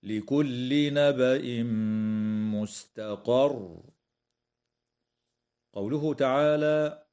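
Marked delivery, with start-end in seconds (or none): 0.0-3.8 slow chanted verse, stopping with a stressed doubled ra in مستقر; Quran recitation. Shown as a demonstration. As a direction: chant it slowly and stop firmly on the ra. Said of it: "هكذا".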